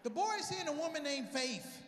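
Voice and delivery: dad shouting high and loud to his wife; excited shout. Retold or imitated. Dad yelling to Mary across the house, high and loud. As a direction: call out high and loud, sure he's cracked it. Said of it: "She's like".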